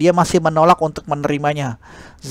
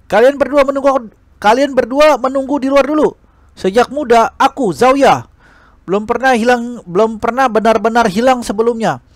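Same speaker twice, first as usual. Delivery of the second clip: higher, firm determined declaration; proud resolve; 6 semitones higher than usual. Acted. Zhao Ye telling her two friends to wait, proud and determined. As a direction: stand tall and refuse to back down.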